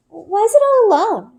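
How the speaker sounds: put-on high, worried young girl's voice; a small girl fretting over the lost cub; Runa. A narrator's reading. Little girl Runa asking Bryn about the cub, high and worried. Runa's lines in read story.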